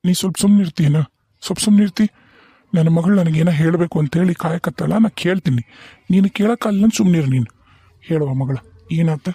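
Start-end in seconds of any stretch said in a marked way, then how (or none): 0.1-7.5 annoyed rebuke. Acted. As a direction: shut her up firmly. Father silences wife angrily. (ಸಿಟ್ಟಿನಿಂದ ಹೆಂಡತಿಯನ್ನು ಗದರಿಸು)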